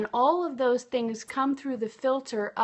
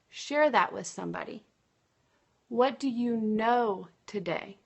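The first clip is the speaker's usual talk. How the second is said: read slowly. Shown as a demonstration. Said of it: "I'm gonna read them slowly".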